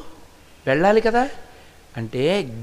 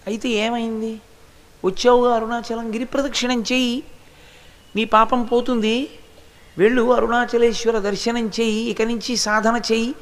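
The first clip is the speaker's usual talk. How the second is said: higher, lightly voiced sage giving simple advice; kindly guru consoling; 4 semitones higher than usual. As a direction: reassure her like a gentle guru. Ramana consoles weeping woman. (ఏడుస్తున్న ఆవిడకు రమణులు ధైర్యం చెబుతూ, కొంచెం ఎత్తైన స్వరంలో)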